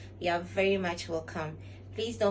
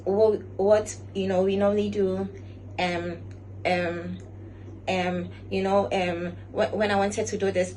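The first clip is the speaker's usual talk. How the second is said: filler-heavy speech; 5 dB louder than usual. Shown as a demonstration. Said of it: "So fillers are".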